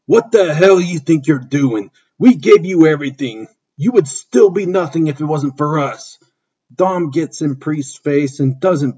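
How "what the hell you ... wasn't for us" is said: understated angry shout at Dom; hint of a furious wrestler yelling. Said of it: "Priest yells".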